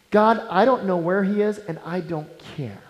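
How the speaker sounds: uncaring attitude. Acted.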